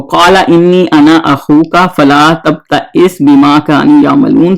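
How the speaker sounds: slow, measured recitation of the verse; a teacher chanting the Arabic verse for students; Quran recitation. Shown as a demonstration. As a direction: recite it slowly, drawing out the vowels.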